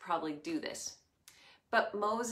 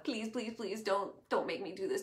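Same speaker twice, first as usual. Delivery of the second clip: pleading. Acted. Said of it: "Moses pleads with God".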